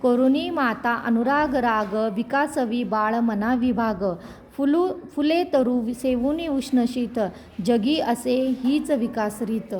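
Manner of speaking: slow, measured reciting of verse; poem recitation. A narrator's reading. Narrator recites a poem about a mother's love, slow and measured. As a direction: chant the lines slowly like a poem. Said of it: "एका कवितेत म्हटले आहे".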